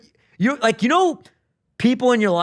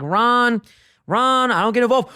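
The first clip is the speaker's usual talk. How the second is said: imitating a restrained protest, pitched up; calm at first; 5 semitones higher than usual. Mike fending off Ronnie at first, mock calm. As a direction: hold it back before the outburst. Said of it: "Mike's keeping it calm at first".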